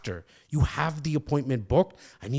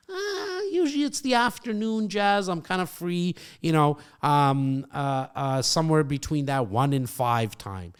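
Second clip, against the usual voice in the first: client voice. Acted. Role-plays client Bo answering.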